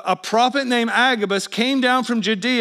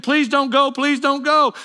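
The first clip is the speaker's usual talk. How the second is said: raised-voice plea, repeated; mock pleading, higher pitch; begging; 5 semitones higher than usual. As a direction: imitate friends begging him to stay. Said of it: "gathered around him and begged".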